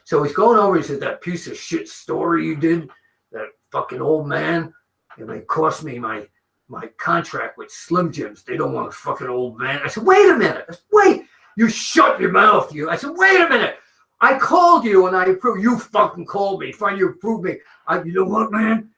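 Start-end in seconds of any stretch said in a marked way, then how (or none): 1.0-9.8 lightly voiced gruff wrestler, bitter and threatening; a hint of a resentful wrestler grumbling; rough imitation of a grumbling wrestler; Randy Savage. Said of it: "worst Savage impression I've ever". 10.0-15.6 high, loud frantic yelling; high-pitched, frantic, retold yell; panicked protest. Retelling his own panicked protest. 15.6-18.9 a hint of a gruff wrestler threatening; Randy Savage. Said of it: "worst Savage impression I've ever".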